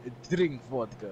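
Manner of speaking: Russian cat voice. Pretend. Voicing the supposedly Russian cat.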